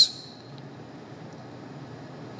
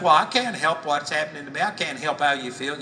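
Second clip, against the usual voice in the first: fast, lightly voiced excuse; mock complaining believer; faster than usual. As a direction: rattle off a lightly mocked complaint. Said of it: "Most people think".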